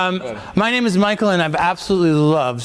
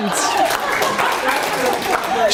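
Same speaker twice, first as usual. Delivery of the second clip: excited praise; much slower than usual. Real, not acted. Coach cheering a participant's intro.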